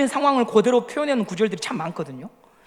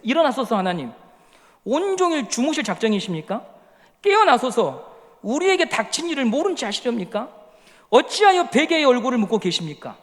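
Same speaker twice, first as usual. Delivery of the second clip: scripture reading. Acted. Reads The Message aloud.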